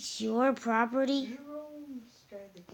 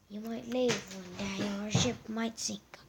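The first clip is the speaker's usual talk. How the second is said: whispering; 8 dB quieter than usual. Pretend. Ominous whisper.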